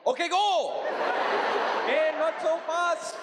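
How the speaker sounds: high laughing voice; high, slow, laughing mock cricketer; laughing mock runner. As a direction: laugh through it, high and playful. Acted runner quote, laughing.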